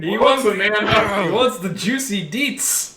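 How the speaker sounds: high, drawn-out playful plea; jokey high-pitched begging for details; mock eagerness. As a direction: ham up a hunger for gossip, slow and high. Player jokingly begs for more detail.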